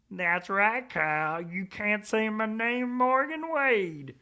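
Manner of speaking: high, slow put-on voice; hammed-up self-announcement; mock dramatic. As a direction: drag out the name with mock grandeur. Mock playing the name-dropper.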